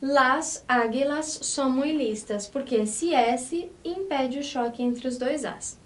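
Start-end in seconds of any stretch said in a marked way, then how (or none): 0.0-2.5 Las águilas son muy listas read slowly; careful teacher reading; slow model sentence. Shown as a demonstration. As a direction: read the plural example slowly. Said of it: "essa frase ficaria".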